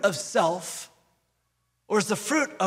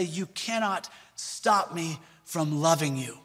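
gentle defiant quote; 3 semitones lower than usual. Retold or imitated. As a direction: lovingly tell the enemy. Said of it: "looking into the camera and say".

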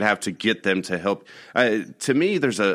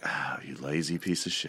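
mock insult; 5 semitones lower, 9 dB quieter than usual. Teasing coworker over lights.

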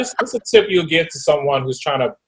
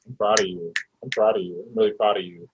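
tender; 6 semitones lower, 7 dB quieter than usual. Real, not acted. Host praises her softly.

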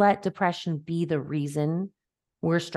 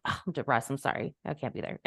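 mock sheepish excuse; 4 semitones lower, 7 dB quieter, faster than usual.

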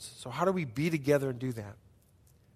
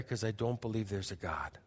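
whispered confession; 9 semitones lower, 10 dB quieter than usual. Retold or imitated. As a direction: whisper it, barely audible, ashamed. Confession retold in seminary group.

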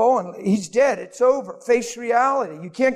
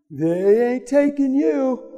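protective Peter; 5 semitones higher, much slower than usual. Retold or imitated.

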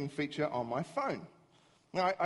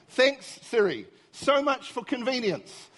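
sarcastic thanks; 5 semitones higher, 4 dB louder, slower than usual. Retold or imitated. Sarcastic thanks after failures.

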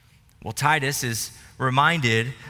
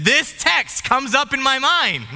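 sudden realization; 10 semitones higher, 5 dB louder, slower than usual. Real, not acted. Sudden realisation at red light.

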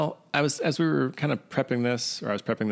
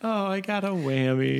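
laughing; 10 semitones higher than usual. Real, not acted. Laughing reply to the game show bit.

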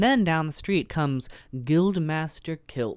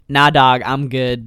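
dismissive; 9 dB louder, slower than usual. Retold or imitated. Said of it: "And she's like".

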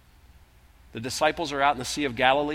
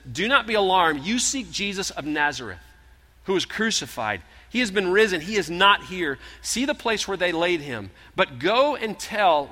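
raised, proclaiming angel voice; angel's message; 4 semitones higher, 5 dB louder than usual. Acted. Angel announcing to the two women, raised and proclaiming.

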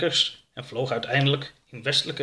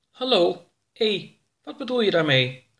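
impatient alien Oroka; 7 semitones higher than usual. Acted. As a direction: call out to the silent ship. Oroka gets no answer.

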